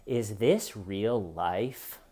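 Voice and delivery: mock stunned disbelief. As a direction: ask it like the world just stopped making sense. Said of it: "he stands up and he says".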